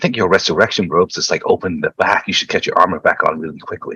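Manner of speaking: urgent, hushed half-whisper, kept private. Recounting turning to someone during a game, retelling a half-whisper. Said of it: "And then I turned to Gordy and whispers like".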